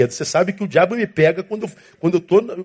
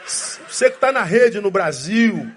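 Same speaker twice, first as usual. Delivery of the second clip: slow half-laughing shout; preacher calling out the left-lane drivers, laughing; laughing callout; 2 semitones higher, slower than usual. Acted. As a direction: call them out with a laugh.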